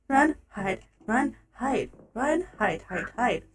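soft, low self-coaching; hushed urgency. Real, not acted. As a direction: murmur it under your breath while hiding. Muttering while hiding in game.

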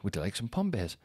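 put-on dad quietly tempting his daughter in front of the kid; dead quiet. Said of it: "just dead quiet".

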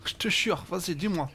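joking hint of a Maghreb accent; attempted Maghreb accent. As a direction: lightly imitate a Maghreb accent. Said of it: "j'y étais presque avec mon accent".

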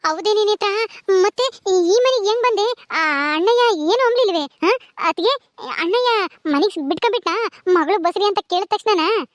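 high-pitched, incredulous questions; surprised questioning. Acted. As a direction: press for the story in amazement. Amazed questions about the homecoming.

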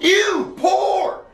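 high, drawn-out cry of disgust; snobbish disgust. Acted. Rich kid recoils from a job.

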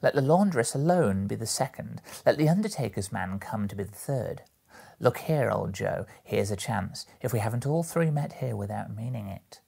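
lightly voiced brash charwoman. Charwoman greets old Joe and the other two, brash. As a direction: swoop up and exclaim to the company.

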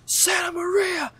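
very high, slow, shouted Santa Maria; shocked exclamation. Retold or imitated. Teacher catching pencil thrower, shouting high. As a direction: cry out in shock. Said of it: "and he goes".

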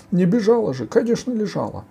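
high-pitched loud protest; shouting ogre. A narrator's reading. Ogre arguing back at Sila, high shout. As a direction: cry out indignantly as the ogre. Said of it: "кричал людоед".

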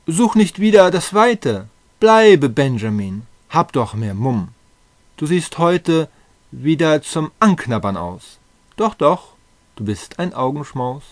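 eager flirtatious urging. Acted. Britta begs shy Benjamin to stay, eager urging. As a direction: coax a shy sweetheart with emphatic eagerness.

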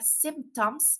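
"symptoms" pronounced carefully as SIMP-toms; pronunciation demo. Shown as a demonstration. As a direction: model "symptoms" in two distinct syllables, SIMP-toms. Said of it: "la palabra síntomas se pronuncia".

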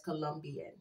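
"Colombian" with a Colombian woman's accent. Shown as a demonstration. Reader channels a Colombian woman, saying it in her accent. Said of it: "I just said that with an accent".

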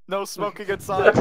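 chuckling through the words; laughing. Real, not acted. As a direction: laugh while saying it. Laughing reply.

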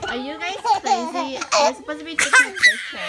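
exasperated laugh through the words; laughing scold. Real, not acted. Kids goofing, laughing scold.

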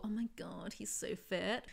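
hushed, breathless mock swooning. Reviewer mocks Zoe gushing over Kalona, mock swoon. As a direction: play her as a girl gushing over a boy. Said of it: "And she's all".

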